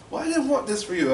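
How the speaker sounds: high-pitched imitation of a distressed mom; upset lament. Mother lamenting, acted.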